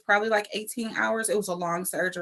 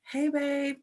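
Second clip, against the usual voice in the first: imitating a husband's soft, higher call; gentle waking call; 6 semitones higher, 5 dB quieter than usual. Husband trying to wake his wife after surgery, soft higher call. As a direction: softly try to rouse her, pitched up. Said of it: "trying to wake me up".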